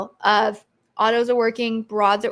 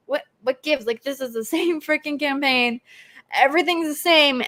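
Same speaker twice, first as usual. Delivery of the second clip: bewildered, half-laughing complaint; mock exasperation; 3 semitones higher than usual. Seller restarting a paused campaign, mock exasperated. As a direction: play a puzzled seller. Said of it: "you're like".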